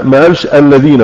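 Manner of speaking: الذين said with z, no tongue out; Egyptian z for dh. Shown as a demonstration. Teacher showing the Egyptian dialect slip to students, z sound. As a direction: say الذين as alzeena, Egyptian style. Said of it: "ما خرجش لسانه في الذال".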